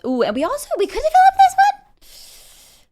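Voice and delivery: high, quick eager voice; light up with a new plan; excited planning. Real, not acted. Sudden new idea mid-game.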